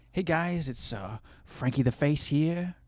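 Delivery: put-on light Italian intro accent; Italian accent impression. Streamer imitating Frank's intro, light Italian accent. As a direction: greet them like Frankie the face. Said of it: "That's what he'd say".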